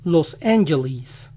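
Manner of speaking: "Los Angeles" as "los AN-juh-lees"; slow American "Los Angeles" ending in "leez"; English variant pronunciation. Shown as a demonstration. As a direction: say "Los Angeles" with long I in last syllable. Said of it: "Algunos lo dicen".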